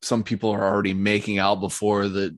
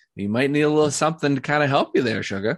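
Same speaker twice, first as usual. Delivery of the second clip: coy, flirtatious voice, pitched slightly higher; 6 semitones higher than usual. Voicing the coat check lady eyeing a guest up and down: flirty coat check lady. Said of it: "she kinda eyes you up and down".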